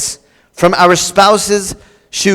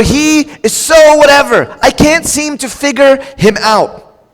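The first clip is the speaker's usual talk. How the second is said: exasperated wife; 5 semitones higher than usual. Retold or imitated. Quoting frustrated wife.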